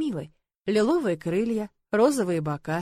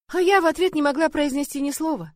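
usual speaking voice

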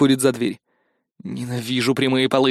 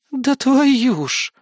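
much higher, very slow exasperated outburst; doomed groan; 11 semitones higher, much slower than usual. Acted. Eris groans hopelessly at the news about Masha. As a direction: drag it out in hopeless frustration. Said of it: "обречённо выдохнула Эрис".

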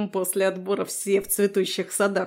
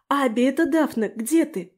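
higher, louder call into the dark; 5 semitones higher, 4 dB louder than usual. A narrator's reading. Daphne calls to Abi through the woods, raised searching call. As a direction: call for a lost friend. Calling out in the forest.

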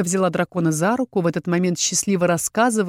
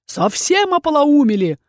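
higher-pitched indignant bark; angry dragon's roar, moderately raised; barked outburst; 5 semitones higher than usual. A narrator's reading. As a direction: bark it in outrage. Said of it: "рявкнул дракон".

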